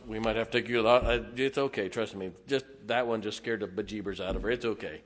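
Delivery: low, quiet, calming aside; lightly voiced doctor soothing a patient; reassuring doctor. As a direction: talk them down softly, low and unhurried. Voicing the doctor reassuring his wife.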